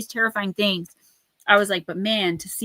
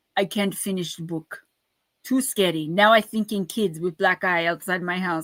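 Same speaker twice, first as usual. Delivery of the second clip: horrible put-on broken-English Russian accent. Quoting a big, tall russian man, in a bad russian accent. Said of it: "I know it's a horrible accent".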